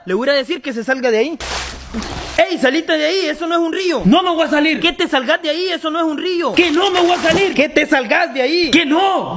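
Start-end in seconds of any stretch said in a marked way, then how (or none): 2.4-9.3 shouting argument. Acted. Shouting argument over river.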